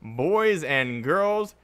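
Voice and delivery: slow drawn-out winner announcement; ring announcer. Pretend. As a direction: draw out every word like a ring announcer.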